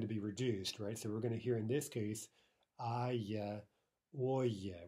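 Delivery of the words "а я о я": "а я", "о я" with full, unreduced stressed vowels; distinct stressed endings. Shown as a demonstration. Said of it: "We're gonna hear much more distinctly".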